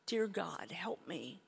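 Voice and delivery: breathy whispered prayer, barely voiced; whispered plea. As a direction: beg God under your breath. Desperate plea in retold despair.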